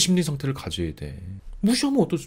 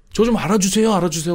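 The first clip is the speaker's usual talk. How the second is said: higher, louder mocking plea for recognition; mock pleading; 5 semitones higher, 4 dB louder than usual. Mocking a needy person begging for recognition, higher pleading whine. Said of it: "하고 다니는 거 아니야".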